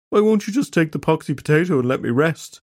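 pleading. Acted. Weeping Preston pleads.

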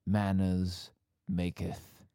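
lightly voiced measured gentleman, slowing down; Harry. Host signs off as the Kingsman Harry, lightly voiced. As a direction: draw the motto out with measured pauses. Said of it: "one could say that I'm Harry".

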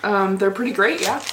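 talking with a mouth full. Real, not acted. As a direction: speak around a bite of cupcake. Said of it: "I'm eating some of this cupcake".

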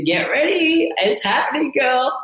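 high, bursting with excitement; excited announcement. Retold or imitated. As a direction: shout the news with glee. Calling friend with big news.

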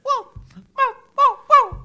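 high yappy barks. Pretend. Co-host answers the chorus with small-dog yaps. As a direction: yap like a little excited dog.

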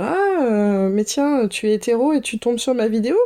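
lightly mimicking a creator teasing straight viewers; teasing TikTok creator. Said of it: "des vidéos où elles vont dire".

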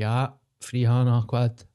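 imitating him. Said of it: "'Cause he kinda talks like that".

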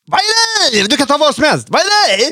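Adde Malmberg impression. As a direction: ham up the bewildered comic. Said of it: "du bara kör på".

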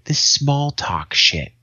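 slow, drawn-out disdain; lightly voiced grumpy grandfather; disgusted grumble. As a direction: drag out the complaint.

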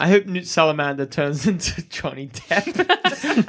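laughing through the words; words broken by a laugh. Real, not acted. Joke makes him laugh.

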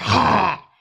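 breathy, toned-down lion roar; mock lion's roar. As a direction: let out a small demonstration roar. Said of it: "What about Lion's Roar?".

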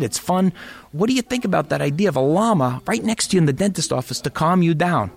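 lightly hammed Staten Island dentist pitching an idea; New York dentist accent. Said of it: "it's a cliche accent".

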